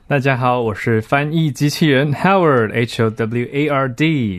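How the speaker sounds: slow, stiff robot voice; rusty robot. Pretend. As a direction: speak like a creaky machine. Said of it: "每次听到Howard要装机器人的声音". (机器人腔调)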